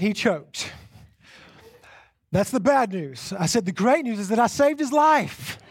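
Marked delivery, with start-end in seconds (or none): 3.6-5.6 laughing boast. Retold or imitated. Proud retort, laughing.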